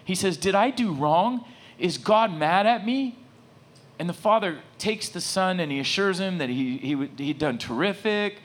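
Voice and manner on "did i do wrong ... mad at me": slow, high voice of an upset boy, imitated; tearful child. Six-year-old asks his father after being scolded, imitated tearful pleading. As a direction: plead like a hurt little kid, lightly acted. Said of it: "bursts out in tears. He's crying".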